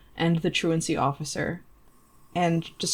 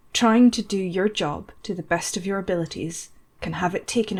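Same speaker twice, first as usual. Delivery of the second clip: raw and sincere. Acted. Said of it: "he sounds kind of a little bit raw".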